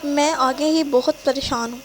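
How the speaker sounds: upset, lightly voiced tears; tearful pleading. Girlfriend pleading with angry boyfriend, a touch tearful. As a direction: plead through mild tears. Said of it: "وہ مزید روتے ہوئے کہتی ہے".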